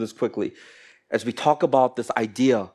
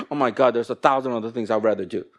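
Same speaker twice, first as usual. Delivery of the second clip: fast, dropped grumble of reluctance; weary inner thought; faster than usual. Acted. Preacher voicing the hypocrite's real thought, weary inner grumble. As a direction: drop the act and grumble it quickly. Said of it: "what you're feeling internally".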